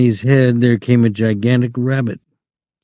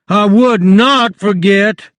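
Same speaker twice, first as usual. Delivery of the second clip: much higher, slow protest; loudly; 10 semitones higher, 4 dB louder, slower than usual. Acted. Lenny protests to the rabbit, loud and high. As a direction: insist loudly, drawn out. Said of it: "Lenny said loudly".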